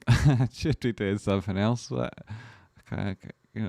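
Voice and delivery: can't stop giggling; cracking up mid-line. Real, not acted. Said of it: "it's hard stringing together".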